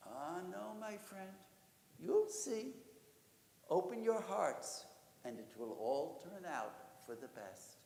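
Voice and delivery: soft, soothing reply; calm them down like a kindly rabbi; quiet and unhurried, settling their worries; gentle reassurance. Acted. Rabbi reassures the alarmed villagers.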